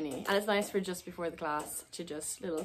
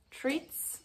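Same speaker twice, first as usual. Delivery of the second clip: whispered; 6 semitones higher, 4 dB quieter than usual. Acted. Whispering the horse's trigger word.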